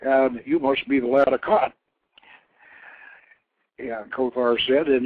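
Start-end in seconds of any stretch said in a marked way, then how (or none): 0.0-1.7 louder, booming god voice; lightly voiced mighty craftsman god, pleased; god Kothor voiced. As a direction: speak as a proud inventor god.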